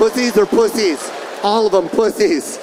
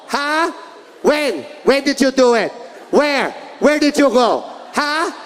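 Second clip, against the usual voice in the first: higher mock yelling mother; mom yelling; 4 semitones higher than usual. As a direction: bark questions like his angry mom. Mom interrogation continues.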